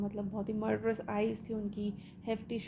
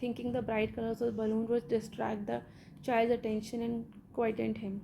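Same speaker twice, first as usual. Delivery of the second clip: slow, measured read-aloud of a story; deliberate textbook narration; much slower than usual. Acted. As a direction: read each phrase out slowly for the class. Reads English story text aloud.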